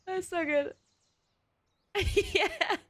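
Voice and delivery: can't stop laughing at the memory. Real, not acted. Laughing at own story.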